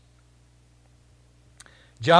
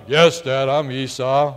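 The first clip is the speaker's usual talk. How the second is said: a lower, mock-gruff put-on voice; faking his brother's voice; 4 semitones lower than usual. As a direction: drop the voice to pass as Esau. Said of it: "trying to make his voice probably sound like".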